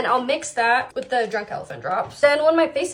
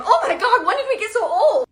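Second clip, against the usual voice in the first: laughing; 8 semitones higher, 6 dB louder than usual. Acted. Friends laughing about getting old.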